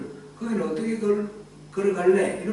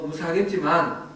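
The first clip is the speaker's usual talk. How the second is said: ordinary talk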